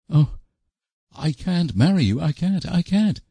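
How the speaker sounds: high, rising panicked protest; crying out wildly. A narrator's reading. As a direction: break out in a frantic, rising refusal. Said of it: "she cried wildly".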